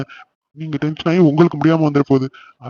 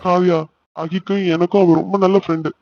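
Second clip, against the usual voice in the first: higher-pitched, upset explaining; tearful; 4 semitones higher than usual. Acted. Brother blaming himself for sister's attempt, mildly tearful. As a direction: explain yourself on the edge of tears. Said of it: "அழாதண்ணா".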